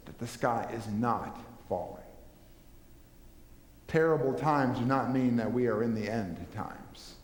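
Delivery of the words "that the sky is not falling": calm correction. Acted. Calm answer to Chicken Little.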